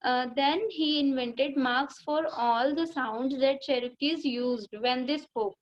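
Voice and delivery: slow, careful reading aloud to a class; teacher reading the lesson line by line; slow textbook reading. Shown as a demonstration. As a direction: read each word out slowly for the pupils.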